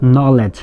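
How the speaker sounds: Knowledge begun on n, k unsounded; silent K. Shown as a demonstration. Teacher explaining the silent letter, Knowledge without a k. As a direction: say Knowledge as nolej. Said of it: "ক উচ্চারণটা যেহেতু হয় না".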